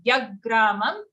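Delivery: "yagramam" opening on a firm y; clear third y. Shown as a demonstration. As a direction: stress the first sound of "yagramam". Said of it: "third, third ear".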